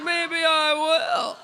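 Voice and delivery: very slow, hammed-up coyness; very drawn-out maybe. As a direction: drag every word out, playing hard to get. Coy reply, escalating back and forth.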